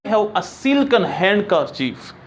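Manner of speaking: slow, careful dictation; slow model sentence. Shown as a demonstration. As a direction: read it out slowly word by word. (धीरे धीरे पढ़ा गया वाक्य)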